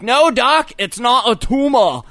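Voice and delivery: high, shouted accented movie-hero impression; Arnold Schwarzenegger. Joking reply to the doctor, shouted Arnold impression. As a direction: shout it as a hammed-up action star. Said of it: "in my best Arnold voice".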